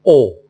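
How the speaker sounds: "او" loud with rounded lips; rounded "او" sound. Shown as a demonstration. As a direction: round the mouth fully on "او". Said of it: "خصها تكون مدورة مزيان". ("او" بفم مدور وبصوت مرتفع)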